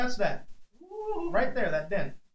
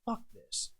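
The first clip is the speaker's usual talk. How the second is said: unvoiced, much softer muttered curse; whispered curse; 6 semitones higher, 15 dB quieter than usual. Wrestler retelling his private decision in the ring, whispering. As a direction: whisper it to yourself, resolved.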